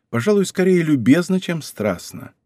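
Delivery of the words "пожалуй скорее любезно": usual speaking voice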